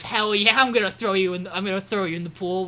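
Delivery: loud, gung-ho burst easing off; eager agreement. Retold or imitated. Podcaster acting out Eiji agreeing to pool throwing, loud and eager. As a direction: start with a big punched "hell yeah".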